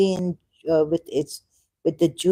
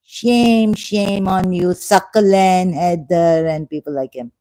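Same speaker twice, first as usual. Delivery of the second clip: shaming outburst; 5 dB louder than usual. Real, not acted. Streamer shaming her online critics, loud scolding. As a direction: hurl the shame at them.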